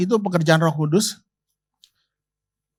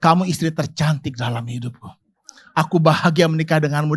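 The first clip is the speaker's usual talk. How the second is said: sweet compliment to wife; 5 semitones lower than usual. Shown as a demonstration. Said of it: "Ngomong aja".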